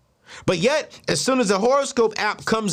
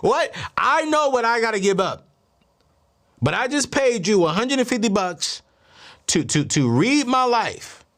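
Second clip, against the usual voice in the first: raised-pitch mock exasperation; mildly outraged, pitched up; indignant telling-off; 4 semitones higher than usual. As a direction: act out a cheated customer's complaint. Acted telling-off of the psychic.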